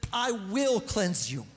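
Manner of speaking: God's promise. Retold or imitated. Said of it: "He says".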